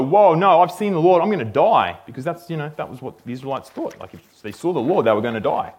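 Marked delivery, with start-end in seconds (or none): 0.0-2.0 loud mock panic; hammed-up panic, starting loud and high; freaking out. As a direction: act out a man in alarm, lightly. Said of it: "Gideon's freaking out. He's just like".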